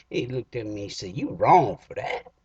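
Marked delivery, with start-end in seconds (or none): 1.2-2.3 slow, louder reproach; offended. Retold or imitated. T-Boy scolding his friend for the joke, slow and offended. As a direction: drag it out, hurt and scolding.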